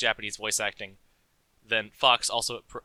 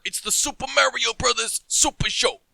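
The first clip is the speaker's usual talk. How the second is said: loud, much higher hammed-up Mario shout; Mario impression; 12 semitones higher, 10 dB louder than usual. Showing a friend the old Mario cartoon voice, loud hammed-up shout. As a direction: belt it out like the cartoon plumber. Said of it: "he always sounds like this gruff Brooklyn man".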